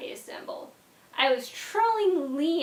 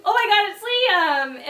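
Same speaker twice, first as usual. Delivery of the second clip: higher and louder, squealing with delight; peak excitement; 7 semitones higher, 6 dB louder than usual. Retold or imitated. The surprise fully sinking in, squealing at the friend. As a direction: hit the top of the thrill. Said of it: "And then it turned into".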